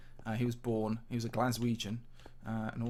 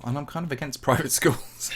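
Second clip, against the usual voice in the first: laughing whisper; 3 semitones higher, 9 dB louder than usual. Real, not acted. Laughing aside about private schools.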